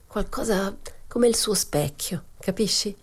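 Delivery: confiding whisper. Acted. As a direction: drop to a whisper for the secret. Momina confides an intimate secret.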